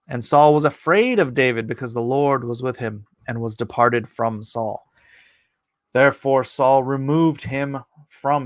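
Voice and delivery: emphatic King James Bible reading; declaimed Old Testament narrative; scripture reading. A narrator's reading. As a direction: read the verse out with measured, weighty stresses. Reads scripture aloud.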